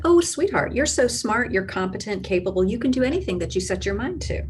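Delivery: gushing cheerleader mom, high on sweetheart; imitating cheerful mom. Mom cheering her scared kid on, gushing. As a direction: play the encouraging mom, bubbly and fast at the end. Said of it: "she would say things like".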